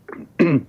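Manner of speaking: throat clearing after swallowing wrong; choking cough. Real, not acted. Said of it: "ich hab mich verschluckt".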